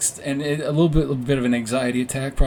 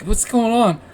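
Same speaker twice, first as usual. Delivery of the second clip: confused dad; 10 semitones higher, 4 dB louder, slower than usual. Retold or imitated. Groggy dad woken.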